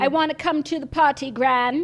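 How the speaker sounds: Prince Harry. Acted. Pleading with gran about the party, mock British accent. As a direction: plead in hammed-up British English. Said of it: "Prince Harry impersonation".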